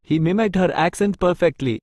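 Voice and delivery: each word spaced out slowly for learners; slow dictation. Shown as a demonstration. Teacher reading an English example sentence to Tamil learners, very slow and clear.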